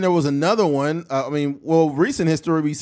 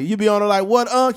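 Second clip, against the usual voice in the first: higher mock buddy voice; light teasing Chad voice; imitating Chad; 6 semitones higher, 5 dB louder than usual. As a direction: pitch up a little, teasing question. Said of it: "He's like".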